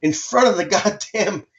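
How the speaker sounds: high, heated complaint; exasperated scolding of the floor guy; indignant retort. Retold or imitated. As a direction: pitch up in outraged disbelief. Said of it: "I'm like".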